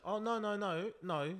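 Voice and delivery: lightly voiced teacher correcting a child; a hint of patient teacher; teacher talking to kids. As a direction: imitate a teacher's gentle telling-off. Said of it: "a teacher. She knows how to talk to kids".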